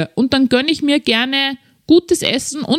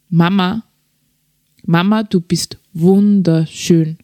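slow whispered words, lower and breathless; tender whisper; 4 semitones lower than usual. Retold or imitated. The little son whispers to his crying mother, slow tender whisper. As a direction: whisper it like a small child comforting his mother. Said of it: "hat gesagt".

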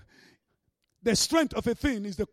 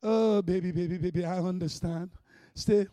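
lower, cooing mock sympathy; mock soothing; 5 semitones lower than usual. Imagined angels coddling the believer, mock soothing. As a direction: coo it in a low, pitying parody of comfort. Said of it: "You think they're shouting".

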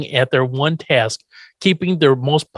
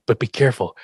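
ominous circus man; 4 semitones lower than usual. Retold or imitated. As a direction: warn them gravely, drawing out pounds mean. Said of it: "It's like".

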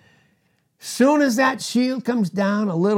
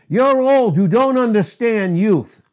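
raised, loud mock accusation; mock complaint; 4 semitones higher, 4 dB louder than usual. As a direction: play an indignant youth scolding an elder. Acting out complaint against Samuel.

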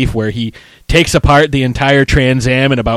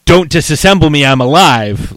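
retold panicked plea, louder; pleading in a panic; freaking out; 2 semitones higher, 5 dB louder than usual. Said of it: "that's when he starts freaking out".

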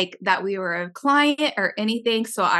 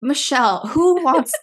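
exasperated rant. Retold or imitated. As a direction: demand it of the cashier in mock outrage. Acted outburst at the cashier.

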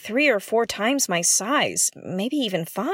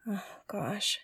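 whisper; 12 dB quieter than usual. Acted. Fearing kids were aboard.

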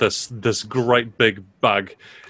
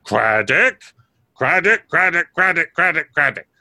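damp muffled mushroom voice. Acted. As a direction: chant the name like an eager fungus. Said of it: "turns to Matilda Mascara".

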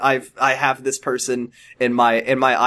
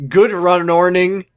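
slow, drowsy morning mumble; just woke up, words slurred; sleepy voice; 2 semitones higher, 4 dB louder, slower than usual. Acted. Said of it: "I said in my sleepy voice".

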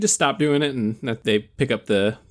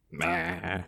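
hammy grunt; 9 dB quieter than usual. Acted. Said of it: "Why did I make that noise?".

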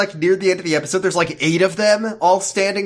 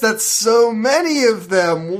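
sarcastic awe; 4 semitones higher than usual. Real, not acted. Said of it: "sarcastic mock amazement".

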